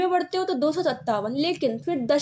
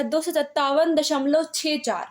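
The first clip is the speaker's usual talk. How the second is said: slow "दो सौ सत्तावन दशमलव छः चार", last two digits separate; decimal read aloud. Shown as a demonstration. Teacher demonstrating a decimal for students, slow and digit by digit. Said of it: "चौंसठ नहीं पढ़ सकते".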